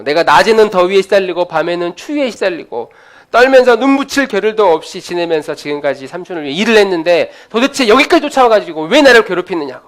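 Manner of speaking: 언성을 높여 억울함을 토로하듯; 삼촌에게 쌓인 분노를 쏟아내듯; 분노한 야곱. Acted. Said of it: "하면서 막 화를 내는 겁니다". (라반에게 억울함을 쏟아내는 야곱, 화난 목소리)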